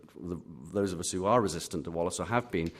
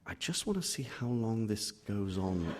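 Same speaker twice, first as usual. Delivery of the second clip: slow, softer acted thought; drawn-out thought of a reader peeking ahead; tentative curiosity; 5 dB quieter than usual. Reader peeking ahead, played for laughs.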